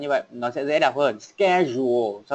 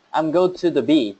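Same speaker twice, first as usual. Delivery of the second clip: smiling; 3 semitones higher than usual. Shown as a demonstration. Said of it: "cười smile".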